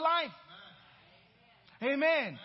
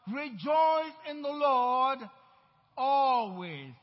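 slow, loud preaching shout, louder on always; scripture yelled out; 6 dB louder, much slower than usual. Acted. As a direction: yell it back at them, drawing it out. Repeated preached refrain.

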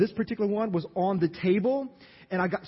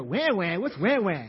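put-on kids puzzled; 5 dB louder, slower than usual. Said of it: "My kids go".

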